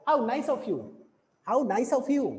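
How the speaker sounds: HOW a little stronger, YOU left unstressed and falling; exclamation falling away from HOW to "you"; stress on HOW. Shown as a demonstration. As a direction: lean on "How", let "you" drop. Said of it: "हाउ को तो थोड़ा सा हम loud बोल रहे हैं".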